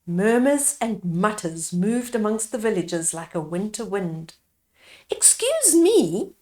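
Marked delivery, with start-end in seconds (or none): 5.1-6.3 small timid whisper; quiet voice. A narrator's reading. Little Mandy whispering timidly to the elders. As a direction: whisper it shyly, barely voiced. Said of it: "Mandy said in a quiet voice".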